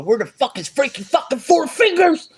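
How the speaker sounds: a hint of hammed-up movie mobster; imitating a movie character. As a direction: mimic the film guy demanding answers. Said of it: "he's all".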